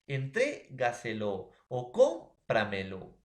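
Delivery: entrégaselo and cómpramelo said slowly, stress leaned on the fourth-from-last syllable; slow example words. Shown as a demonstration. Teacher showing students sobresdrújula examples, slow and deliberate. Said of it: "palabras sobresdrújulas como".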